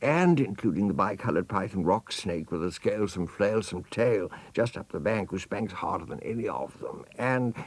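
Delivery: put-on elephant's child. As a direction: list the spankings like an innocent child. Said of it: "said the elephant's child most politely".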